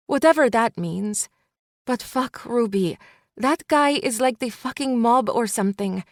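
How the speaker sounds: best friend stopping Ruby from going back; urgent friend. Acted. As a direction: hold her back with pleading urgency. Elena rants about Tomas.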